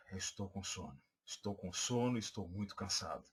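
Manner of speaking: drained, sleepy "estou com sono" to win sympathy; tired voice. Shown as a demonstration. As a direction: let the fatigue sag through the words. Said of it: "demonstrou esse cansaço".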